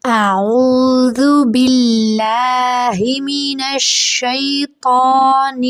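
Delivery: slow, drawn-out chanted recitation; joined-up recitation. Shown as a demonstration. Teacher recites the words joined together. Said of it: "ایک بار پھر سے پڑھتے ہیں".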